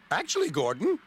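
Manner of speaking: giggling. Acted. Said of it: "giggled Ben".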